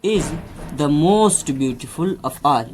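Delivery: very slow, word by word example sentence; slow dictation. Shown as a demonstration. Teacher dictating an example to students, very slow. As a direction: spell it out slowly for the class. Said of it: "अब अगर हम इसका सबसे comparison करें".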